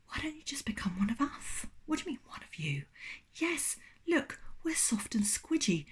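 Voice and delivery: soft whispered pillow voice; whispering pillow. Acted. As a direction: lure them in with a whisper.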